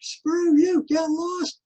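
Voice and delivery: high, sharp mock retort; defiant brush-off. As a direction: tell the voice off flatly. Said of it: "and I'm going".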